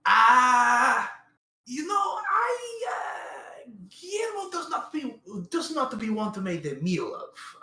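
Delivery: high, loud, panicked crying shout. Acted. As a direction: cry out in panic at the vampires. Terrified character pleading.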